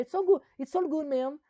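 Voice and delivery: over-the-top fake American English; loud English accent. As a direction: belt it like a cheesy ad in American English. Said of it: "mon accent anglais, il est terrible".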